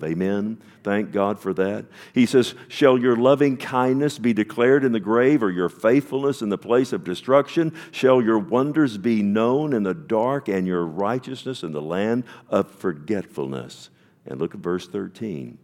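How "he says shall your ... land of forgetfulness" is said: fiery preaching. Acted. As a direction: thunder the verse out to the congregation. Preaching the psalm aloud.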